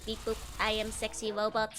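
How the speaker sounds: lightly voiced sexy robot; a playful near-plain robot voice. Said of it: "This is my sexy robot voice".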